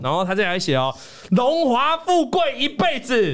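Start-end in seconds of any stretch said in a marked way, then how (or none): 1.3-3.3 laughing while reading. Real, not acted. Host reads viewer's New Year blessing.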